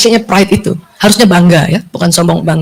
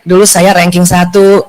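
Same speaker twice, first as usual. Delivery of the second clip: plain proud statement; 6 semitones lower, slower than usual. Retold or imitated. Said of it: "itu bukan sombong".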